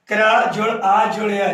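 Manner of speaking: "क्रा", "आ", "या" sounded as separate parts; word broken apart. Shown as a demonstration. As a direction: sound out "क्रा जोड़ आ जोड़ या" part by part. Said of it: "इसको तोड़ेंगे".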